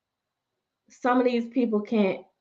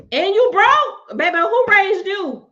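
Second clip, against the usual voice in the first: 1 incredulous; 9 semitones higher, 5 dB louder, slower than usual. Real, not acted. Mocking scammer in disbelief.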